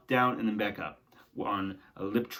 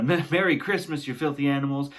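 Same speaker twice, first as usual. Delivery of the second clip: mock gangster line from Home Alone; movie gangster quote; 4 semitones higher, 4 dB louder than usual. Recalling the Home Alone movie line, mock gangster. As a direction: tough guy quote, lightly acted. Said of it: "and he says".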